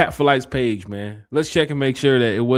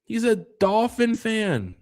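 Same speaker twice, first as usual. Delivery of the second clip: drawn-out tease; 10 semitones higher, much slower than usual. Real, not acted.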